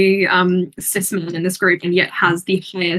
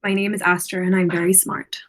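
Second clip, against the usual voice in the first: lightly imitated character accent, slightly lower; Astra; 4 semitones lower, 4 dB quieter than usual. Shown as a demonstration. Player has another go at a friend's character, tentative accented imitation. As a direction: try the character's accent, half-committed. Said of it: "I don't wanna do the accent".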